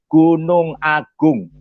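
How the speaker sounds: very slow, stretched-out answer; drawn-out punchline. Retold or imitated. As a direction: spell out the punchline syllable by syllable. (jawaban lucu yang diulur pelan-pelan)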